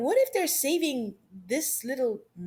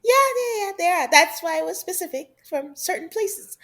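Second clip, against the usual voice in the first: laughing agreement; 8 semitones higher, 3 dB louder than usual. Real, not acted.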